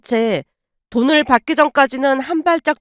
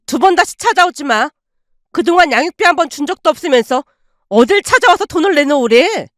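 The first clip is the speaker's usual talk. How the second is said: aunt throwing the father out, snapping at him; 3 semitones higher than usual. Acted. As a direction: shut him down for good. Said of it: "쐐기를 박듯 쏘아붙이자".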